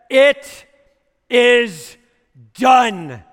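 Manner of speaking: high, loud shouted declaration; thunderous declaration. Acted. Jesus declaring the end to everyone, shouted.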